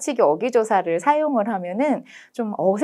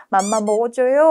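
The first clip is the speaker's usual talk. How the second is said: put-on baby talk. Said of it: "이런 말이 다 이제 아가체죠".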